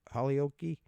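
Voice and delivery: Holyoke as HOLLY-OH-kee, rising; trying out pronunciation. Shown as a demonstration. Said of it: "I know I'm saying it wrong".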